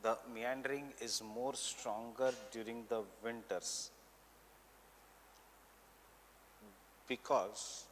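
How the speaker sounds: measured note-giving, repeating phrases for writers; teacher dictating notes for students to copy; classroom dictation. Real, not acted. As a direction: dictate in short chunks with long pauses.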